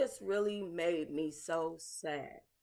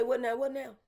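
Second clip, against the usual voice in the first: high exasperated what now; mock-weary "what now?"; 7 semitones higher than usual. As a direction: toss it up in disbelief, pitch raised. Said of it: "you say".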